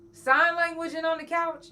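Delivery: high incredulous cry; exasperated outburst. Retold or imitated. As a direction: throw the question out in mock despair. Panicking over two silent weeks.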